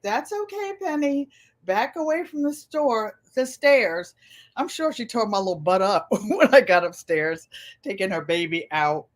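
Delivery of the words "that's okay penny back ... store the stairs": put-on a mother gently calling her toddler back, higher; mom's coaxing voice. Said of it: "my mom's like".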